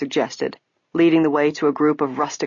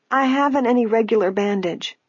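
put-on old woman voice; 6 semitones higher than usual. A narrator's reading.

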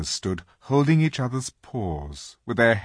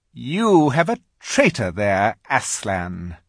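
witch voice; 3 semitones higher, 6 dB louder, slower than usual. Acted. Witch accuses before Aslan.

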